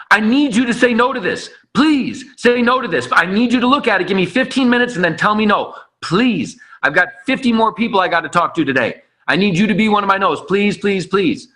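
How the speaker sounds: urgent, insistent plea; lightly acted begging, leaning on each please; pleading. Rep pleading with prospects for a no, pleading.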